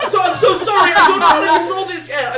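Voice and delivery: high, loud, cracking apology. Acted. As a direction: let the voice crack while apologizing. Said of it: "And my voice cracks".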